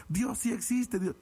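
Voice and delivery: high ecstatic cry trailing off as he walks away; shouting like a madman. Retold or imitated. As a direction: call it out wildly, fading. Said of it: "como loquito se va caminando".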